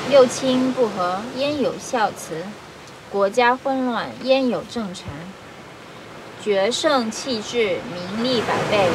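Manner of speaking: measured reading in short, paused phrases; formal Mandarin read-aloud with falling phrase ends; classical Chinese recitation. Acted. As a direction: recite an ancient text line by line.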